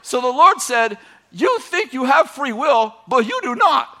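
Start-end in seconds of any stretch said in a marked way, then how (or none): 1.3-4.0 slow, loud and higher, weighing each word; solemn divine voice. Retold or imitated. Preacher voicing the Lord telling the man his will is not free, slow and loud. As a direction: pronounce it like a final verdict from above.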